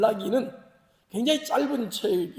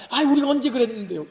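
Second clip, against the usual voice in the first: higher, louder mock denial; argumentative retort; 4 semitones higher, 5 dB louder than usual. Israelites denying God's charge, indignant. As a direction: protest the accusation with put-on indignation. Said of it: "크게 여섯 가지 논쟁이 벌어집니다".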